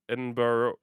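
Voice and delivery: Edinburgh ending in borough, ed-n-BUR-oh. Shown as a demonstration. Streamer testing chat's pronunciation, Edinburgh ending in borough. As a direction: say Edinburgh with a full borough at the end. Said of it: "Borough is how the last part".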